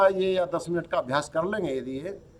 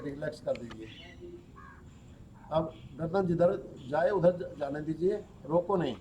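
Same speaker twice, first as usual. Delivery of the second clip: yoga nidra instructor's voice, softer than explaining; guided relaxation; 7 dB quieter than usual. Acted. Teacher leads students through yoga nidra, guided relaxation. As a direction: guide the body into rest, with long pauses.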